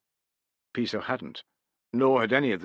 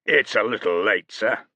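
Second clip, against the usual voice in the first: louder, offhand sir; insolent sir; 3 semitones higher, 6 dB louder than usual. A narrator's reading. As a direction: barely grant the sir. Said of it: "so little emphasis on the last word".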